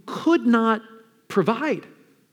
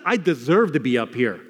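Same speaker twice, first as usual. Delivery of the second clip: lower, sober owning of guilt; resigned admission; 5 semitones lower than usual. Acted. Preacher voicing the criminal owning his guilt, lowered sober admission. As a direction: admit it soberly, voice dropped.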